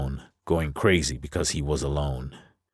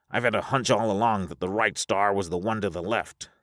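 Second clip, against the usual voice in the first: lightly voiced figure, raised pitch; the speaker's character voice; 6 semitones higher than usual. The speaker arguing for the left star, lightly raised character voice. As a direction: argue a hunch a little higher.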